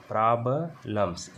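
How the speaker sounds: प्रॉब्लम्स said slowly as prab-lums, with no e sound; pronunciation demo. Shown as a demonstration. Teacher modelling प्रॉब्लम्स for the class, slow. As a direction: draw out प्रॉब्लम्स, skipping the e. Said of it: "ई को नहीं पढ़ रहे हैं".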